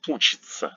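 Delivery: учится ending in hard "tsa"; correct pronunciation. Shown as a demonstration. Teacher models учится for learners with hard tsa ending.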